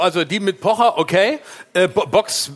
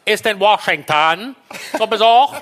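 lightly voiced Wochenschau narrator; newsreel announcer. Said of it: "so wie in der Wochenschau".

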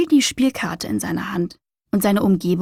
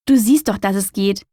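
smirking. Acted. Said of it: "feixte Flo".

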